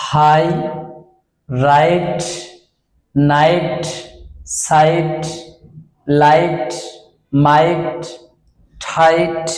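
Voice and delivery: each word said slowly and clearly, the vowel in "হাই" and "রাইট" said as a long "আই" glide; teacher modelling words. Shown as a demonstration. Teacher to students, modelling example words clearly. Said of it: "আই সাউন্ডের মতো pronunciation হয়".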